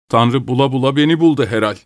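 drained, resigned lament; lifeless. A narrator's reading. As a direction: say it listlessly, with no fight left. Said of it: "dedi cansız cansız".

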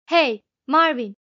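calling out. A narrator's reading. Zafot's companion summoning the robot from the corner, calling out. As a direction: call sharply for attention, voice lifted.

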